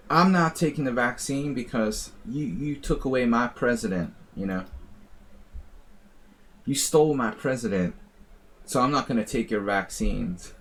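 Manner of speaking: put-on a loose, inaccurate Midwestern accent. Retelling an anti-vaccine Missouri man, mock Midwestern accent. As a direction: mimic a Missouri guy in a rough Midwestern accent. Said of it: "My Midwestern accent, not very accurate".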